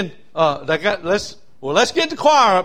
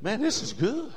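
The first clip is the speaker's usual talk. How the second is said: quiet aside; 3 semitones higher, 6 dB quieter than usual. Retold or imitated. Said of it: "and I said".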